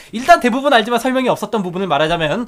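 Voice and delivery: brisk, run-on message reading; speed-reading. Shown as a demonstration. Co-host hurrying through a long listener comment, speed-reading. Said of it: "제가 최대한 빨리 읽겠습니다".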